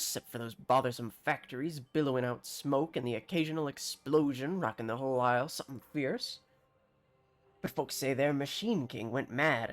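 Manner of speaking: put-on yarn-spinning villager, country accent; bad rustic accent. Farmer tells newcomer of the Clockwork Kingdom, bad rustic accent. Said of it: "bear witness to my bad accent".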